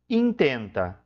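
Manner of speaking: intenta with stressed in, said slowly; Spanish word intenta. Shown as a demonstration. Teacher reading intenta to the class in Spanish, careful. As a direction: stress the first syllable of intenta. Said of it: "olha só".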